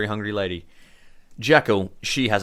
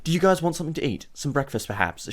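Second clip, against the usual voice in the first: higher, placating villager voice; bargaining nervously; 6 semitones higher than usual. Acted. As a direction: offer hospitality to save your skin. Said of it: "literally bargaining for her life here".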